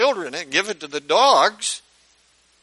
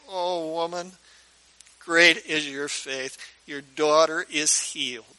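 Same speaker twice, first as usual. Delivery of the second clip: tender; 4 dB quieter than usual. Retold or imitated. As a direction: speak it gently into her face. Jesus holding her face tenderly.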